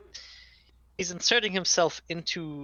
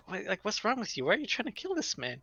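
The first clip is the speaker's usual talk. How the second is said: higher-pitched, indignant questioning; retold incredulous scolding; 7 semitones higher than usual. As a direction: act out baffled reproach. Voicing characters' indignant confrontation.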